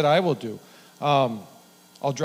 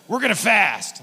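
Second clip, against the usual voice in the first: higher, louder, insistent friend's voice; friend announcing a fast; 8 semitones higher, 7 dB louder than usual. Retold or imitated. Lance telling his buddy they'll fast, insistent. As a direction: lay it down like a pushy buddy.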